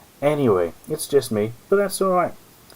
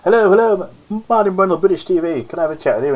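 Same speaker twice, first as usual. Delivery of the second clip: imitating Martin; 9 semitones higher, 5 dB louder than usual. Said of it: "Martin goes up to her and he goes".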